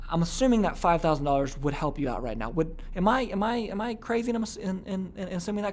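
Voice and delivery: soft, tentative checking; extreme I-care tone. Shown as a demonstration. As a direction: ask gently and haltingly, as if careful not to presume. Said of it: "that's a very extreme version of I care".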